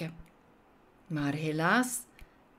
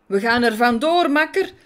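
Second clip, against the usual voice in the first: louder, higher call to retreat; 5 semitones higher, 8 dB louder than usual. A narrator's reading. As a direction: yell to his mate to run. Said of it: "riep Bots".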